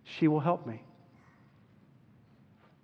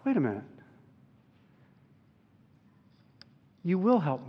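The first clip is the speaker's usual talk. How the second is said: confident quiet prayer. Retold or imitated. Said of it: "And I thought".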